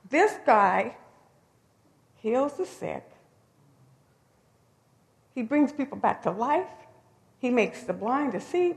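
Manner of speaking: excited realization. Retold or imitated. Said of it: "In his head, he's thinking".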